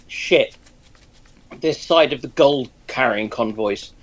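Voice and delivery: normal talking voice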